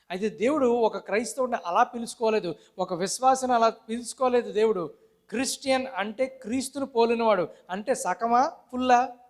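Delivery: insistent preaching that builds to a challenge; forceful preaching. Real, not acted. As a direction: press the point on the congregation. Preacher presses the congregation.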